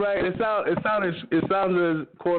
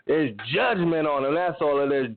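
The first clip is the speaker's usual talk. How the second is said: hardcore Baptist Christian; slower than usual. Retold or imitated. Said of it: "hardcore Baptist Christian".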